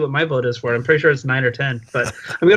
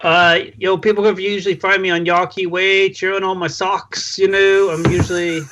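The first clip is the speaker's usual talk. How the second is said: higher, badly faked Boston accent sliding into Valley Girl; botched put-on accent; 4 semitones higher than usual. Podcast guest plugging himself to listeners, botched Boston accent. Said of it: "what kind of accent was that?".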